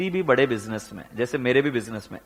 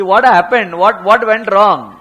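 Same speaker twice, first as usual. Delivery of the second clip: slow emphatic what; 5 semitones higher, 10 dB louder, much slower than usual. Shown as a demonstration. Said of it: "teacher drawn-out emphasis".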